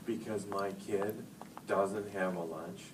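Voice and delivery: slow, deliberate, exasperated put-down; mock indignant scolding. To the school secretary, slow mock indignation. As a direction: drag it out like you can't believe the call. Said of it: "I am mad".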